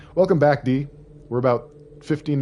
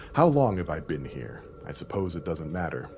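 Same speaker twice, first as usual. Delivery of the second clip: diary reading. Acted. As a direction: read it like a lonely diary. Reads diary notes in game.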